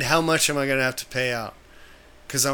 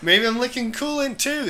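mock yokel; 9 semitones higher than usual. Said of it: "I go".

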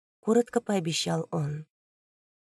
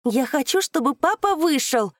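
loud, high, crisp demand; loud and clear; 8 semitones higher, 5 dB louder than usual. Acted. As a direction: say each word loudly and distinctly. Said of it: "громко и чётко проговорила".

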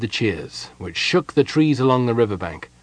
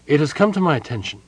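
formal letter read out, pitched up; brisk, higher formal reading; reading aloud; 6 semitones higher, faster than usual. A narrator's reading. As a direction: read out an official dispatch. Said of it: "he read".

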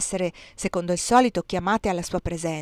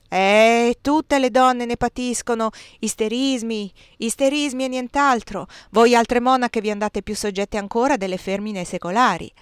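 scornful dismissal; 3 semitones higher, 4 dB louder than usual. Acted. Cardinal dismisses her complaint.

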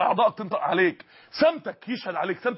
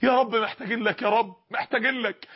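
pleading prayer. Acted. Servants at God's door, humbly pleading. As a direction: plead humbly to God, gently. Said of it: "وقفنا على بابه وقلنا له".

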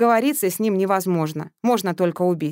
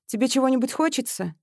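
softer; 6 semitones higher than usual. Acted. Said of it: "спросила чуть мягче".

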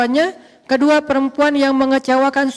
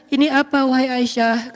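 storytelling tone. Shown as a demonstration. Prophet to Aisyah on coming home, storytelling tone. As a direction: say it as in gentle storytelling, not preaching. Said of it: "harus dibaca dengan nada storytelling".

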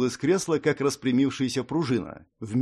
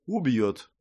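flat confirmation. Acted. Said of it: "подтвердил лич".

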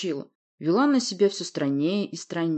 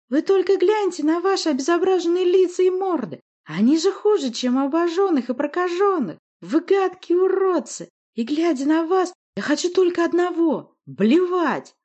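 high, loud deranged witch; screeched insults; 12 semitones higher, 6 dB louder than usual. A narrator's reading. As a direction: shriek with revulsion at them.

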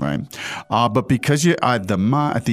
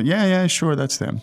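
enthusiastic confirmation; 7 semitones higher than usual. Shown as a demonstration. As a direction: agree eagerly, as with an animated particle. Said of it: "shows you a level of enthusiasm".

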